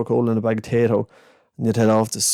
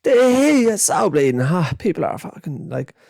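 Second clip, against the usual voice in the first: put-on much higher, louder childish rant; kid's rant; 10 semitones higher, 3 dB louder than usual. Boy ranting about empty shelves, high and loud. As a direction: splutter like an outraged little kid. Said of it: "he goes".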